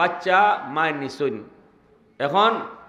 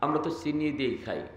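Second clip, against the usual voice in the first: lightly voiced tea seller; 7 dB quieter than usual. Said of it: "কয়".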